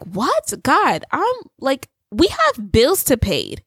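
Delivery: mock tantrum at God; throwing a fit. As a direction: complain like a frustrated child. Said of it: "I put a fit with God".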